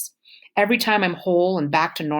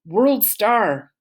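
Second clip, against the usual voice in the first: loud, higher yell across the crowd; shout; 6 semitones higher, 4 dB louder than usual. A narrator's reading. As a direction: holler it out to the crowd. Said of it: "one fool even shouts".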